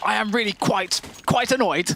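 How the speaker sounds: high-pitched, mock posh accent; hammed-up posh accent, primly annoyed; posh annoyance. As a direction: put on an upper-crust posh huff. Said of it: "do you get really posh or really street".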